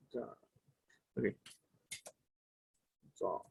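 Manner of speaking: "da" with an open a, like British "the". Shown as a demonstration. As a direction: say "da" with an open a sound. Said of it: "el otro sonido que vendría siendo da". ("da" con a abierta)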